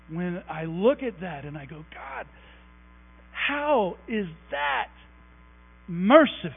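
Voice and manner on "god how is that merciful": choked up. Retold or imitated. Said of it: "I get choked up".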